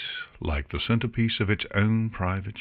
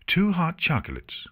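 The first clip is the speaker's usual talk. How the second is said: a touch of sternness, higher; mildly stern; 11 semitones higher than usual. Acted. Artemis ordering drinks for Luna, lightly stern. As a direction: order it with a hint of firmness. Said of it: "Artemis replied sternly".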